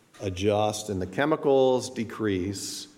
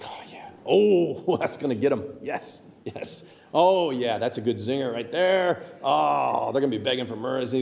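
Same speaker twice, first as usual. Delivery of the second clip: gloating whispers and chuckles over a good zinger; gleeful. Retold or imitated. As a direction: relish the nasty email like a kid with a prank. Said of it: "like, really happy".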